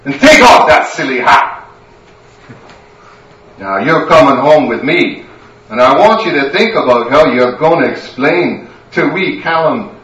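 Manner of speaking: loud, high scolding that builds to a shout; furious Scottish wife. Acted. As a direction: drag him home with a telling-off.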